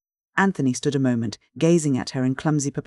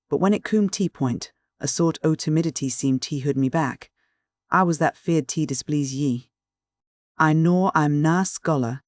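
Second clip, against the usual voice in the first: lightly voiced rough shepherd pleading his love; a plain northern man baring his heart, a touch of dialect; earnest Yorkshire shepherd. Anthony's Yorkshire dialect speech.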